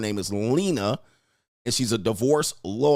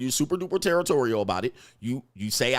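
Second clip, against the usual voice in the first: usual speaking voice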